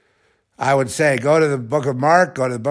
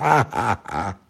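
laughing; 2 semitones lower, 4 dB quieter than usual. Real, not acted. Laughing after making Trish laugh.

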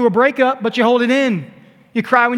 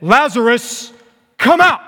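godlike voice; 2 semitones higher, 4 dB louder than usual. Acted. Preacher as Jesus calling into the tomb, godlike voice. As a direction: command the dead like God. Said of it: "in a very godlike voice said".

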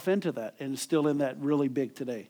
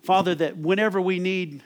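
closing prayer. Acted. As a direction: pray over the church, gently fading out. Closing prayer over music.

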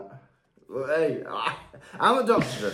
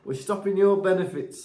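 lightly voiced stern official; mock official. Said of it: "It'll be like".

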